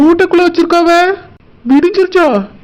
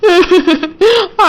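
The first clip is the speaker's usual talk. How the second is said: tearful sob; 4 semitones higher than usual. Acted. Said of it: "எதுக்குமா இப்படி அழுதுட்டு இருக்கா".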